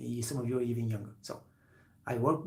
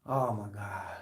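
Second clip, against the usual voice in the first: usual speaking voice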